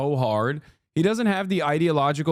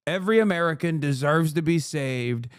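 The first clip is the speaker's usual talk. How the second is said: from plain to a much higher shouted rally pitch; Trump rally voice, building; 6 semitones higher than usual. Retold or imitated. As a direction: build to a full stump-speech shout like Trump. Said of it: "he could just come out and be like".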